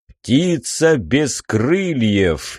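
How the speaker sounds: slow, grand "птица без крыльев" proclaimed; solemn riddle. Acted. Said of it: "торжественно провозгласил сфинкс".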